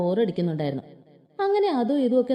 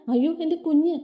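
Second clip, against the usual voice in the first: alarmed grandmother; 6 semitones higher than usual. Acted.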